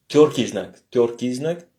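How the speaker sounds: tjorki znak with rolled r, stress on tjor; Russian tjorki znak. Shown as a demonstration. Teacher showing students the hard sign name, careful Russian.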